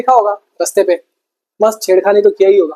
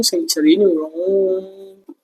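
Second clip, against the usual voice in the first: slow drawn-out; 2 semitones lower, 6 dB quieter, much slower than usual. Shown as a demonstration. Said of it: "इनके बीच क्या हो गया?".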